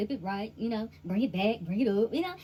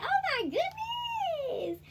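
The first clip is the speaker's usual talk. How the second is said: laughing; much slower than usual. Real, not acted. Laughing outburst.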